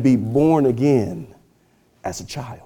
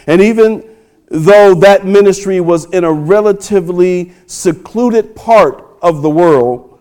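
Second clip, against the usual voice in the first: strong, driving rhetorical build; forceful preaching; 5 semitones higher, 6 dB louder than usual. Acted. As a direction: press the question on the congregation, stretching the climax.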